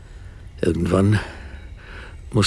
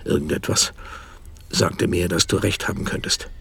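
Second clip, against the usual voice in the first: hushed; 4 semitones lower, 5 dB quieter than usual. Acted. Dark confession to wife.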